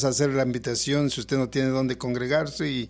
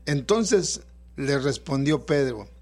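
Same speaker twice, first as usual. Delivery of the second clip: scripture reading. Acted. Pastor reads Mateo 14 aloud.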